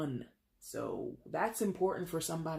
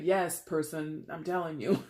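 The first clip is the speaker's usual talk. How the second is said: polite reader version. Acted. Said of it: "not reader Jay".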